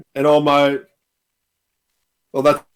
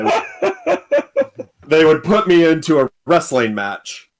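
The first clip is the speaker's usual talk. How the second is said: laughing; 3 semitones higher, slower than usual. Real, not acted. Laughing while telling the story.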